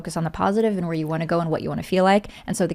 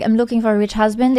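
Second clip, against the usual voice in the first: Russian accent without texture; clean Russian accent; 3 dB louder than usual. Shown as a demonstration. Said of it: "it's, it's too clean".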